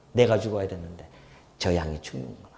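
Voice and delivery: quiet and low on 내가; soft remorseful murmur. Real, not acted. Preacher voicing the sinner's remorse at the altar, softly. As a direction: hush it, heavy with regret.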